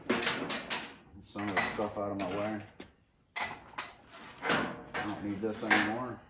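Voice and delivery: breathing heavy between words; winded, catching breath while talking. Real, not acted. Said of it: "Sorry, I'm breathing heavy".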